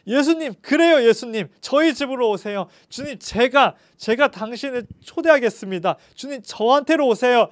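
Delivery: overjoyed to host him; joyful. Acted. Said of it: "너무나도 삭개오가 기뻐하면서".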